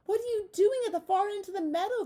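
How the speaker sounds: high, loud scolding ewe; a hint of a worried mother; mother sheep asking.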